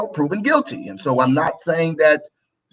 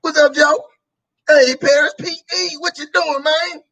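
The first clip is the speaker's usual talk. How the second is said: casual home dialect; 8 semitones higher than usual. Shown as a demonstration. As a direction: greet a buddy the way you talk at home. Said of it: "if you normally talk like this".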